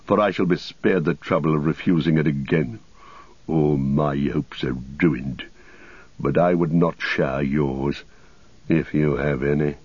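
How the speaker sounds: a touch of proud, ruined bitterness; Saruman. Acted. Story figure Saruman speaks.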